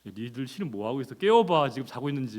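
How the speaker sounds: provocative taunt. Retold or imitated. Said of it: "이렇게 막 도발적으로 얘기한다".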